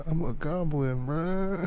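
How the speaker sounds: high, soft mock goblin squeak. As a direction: put on a little high-pitched goblin voice. Acts out answering as goblin.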